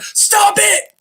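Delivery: sudden high yell, far above normal; shouted stop it. Retold or imitated. Psychiatrist yells at his patient across the desk, sudden high shout. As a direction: blurt it out hard, like snapping someone out of it. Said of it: "he just yells at her".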